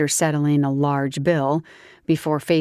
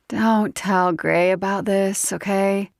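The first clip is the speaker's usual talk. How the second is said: higher, slower coaxing plea; pleading tipsy woman; 5 semitones higher, slower than usual. Acted. Grace pleading softly.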